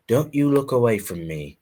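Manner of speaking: put-on high, loud English-accented command, building; shouted English accent. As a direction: shout it as an indignant English lordling. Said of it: "he shouted".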